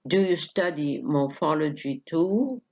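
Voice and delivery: slow question, rising on "too"; careful yes-no question, voice climbing on "too"; question tune. Shown as a demonstration. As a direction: ask slowly, lifting "too" at the end. Teacher models a yes-no question.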